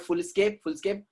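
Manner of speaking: foolscap misread as "full escape"; mistaken pronunciation. Shown as a demonstration. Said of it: "It is not full escape".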